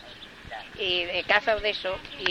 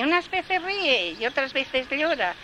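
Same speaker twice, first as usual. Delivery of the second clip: higher, slow sing-song; gardener's refrain; 7 semitones higher, slower than usual. A narrator's reading. Gardener answering the dove in a slow sing-song. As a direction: chant it slowly.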